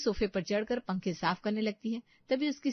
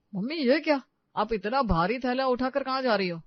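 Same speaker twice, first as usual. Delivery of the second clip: louder, raised-pitch surprised question; concerned surprise; 4 semitones higher, 6 dB louder than usual. Acted. Son finding mother with a heavy bag, surprised concern. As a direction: question her with acted alarm.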